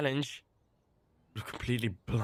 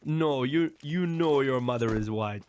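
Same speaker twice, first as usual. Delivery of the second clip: loose imitation of the guru's accent, close to own voice; lightly voiced guru accent from a street interview. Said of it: "I tried to do the accent".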